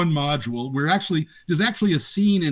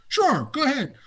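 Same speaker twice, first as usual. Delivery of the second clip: raised, breezy boss voice; voicing the boss; 11 semitones higher than usual. Boss casually agreeing to questions, raised breezy voice. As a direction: toss off an easy yes as the boss.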